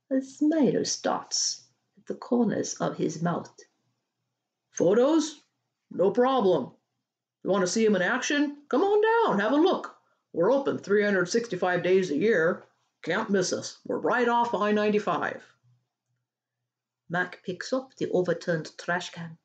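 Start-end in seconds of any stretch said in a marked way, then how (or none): 4.7-15.4 lightly voiced boss turned pitchman, higher and bright; a hint of a fast-talking huckster; eager salesman. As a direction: boss pitching his attraction to a caller, mild salesman voice. Mac selling to caller.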